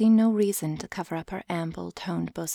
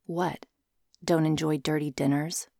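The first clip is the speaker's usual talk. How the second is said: monotone; 3 semitones lower than usual. Acted. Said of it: "he said in a monotone voice".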